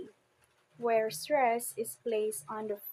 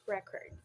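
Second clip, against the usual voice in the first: RECord, first syllable stressed; record as a noun, weight on the opening syllable; 2 semitones lower, 5 dB quieter than usual. Shown as a demonstration. Teacher gives example word to class, stressing the first syllable of record. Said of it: "use this word as a noun".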